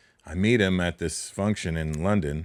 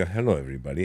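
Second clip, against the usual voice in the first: lower, softer Indian-accent greeting; 4 semitones lower, 4 dB quieter, faster than usual. Shown as a demonstration. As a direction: Indian accent with the whole body moving. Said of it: "your whole body".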